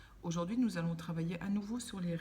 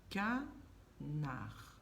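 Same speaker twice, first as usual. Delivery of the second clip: soft repeat; 3 semitones lower, 5 dB quieter than usual. Shown as a demonstration. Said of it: "Par quoi se termine canard".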